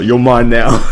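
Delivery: half-hearted pretend kidnapper yell; mock yell. Host as kidnapper suddenly breaking from whispering, mock yelling. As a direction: give a mild mock yell. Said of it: "then you just yell".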